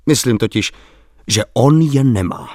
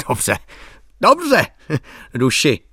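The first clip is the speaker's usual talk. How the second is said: sudden lively exclamation; 3 semitones higher, slower than usual. A narrator's reading. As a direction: burst out with sudden eager agreement. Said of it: "zvolal pojednou velmi živě".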